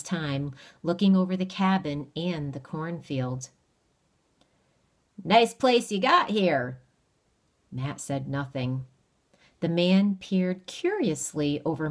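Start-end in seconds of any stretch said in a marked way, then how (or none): 5.2-6.8 sly stranger. Acted. Stranger sizes up the cabin.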